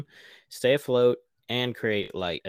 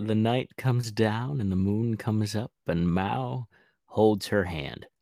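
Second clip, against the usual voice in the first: mock romantic narration; slower than usual. A narrator's reading.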